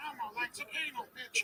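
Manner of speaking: put-on puppet character voice. Warning the audience never to pillow talk in the Muppet voice, Kermit the Frog voice. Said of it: "pillow talk in the Muppet voice".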